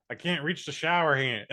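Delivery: imitating a helpless protest; a hint of a whining youngster; mock complaint. Voicing the girl's retold complaint.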